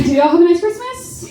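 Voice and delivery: calling to the crowd. Real, not acted. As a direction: lift the pitch to rally the whole room. Asks the crowd again, louder tune.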